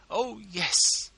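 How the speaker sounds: lady clasping her hands, gushing wildly; gushing wildness. A narrator's reading. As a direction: burst out gushing. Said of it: "a certain gushing wildness".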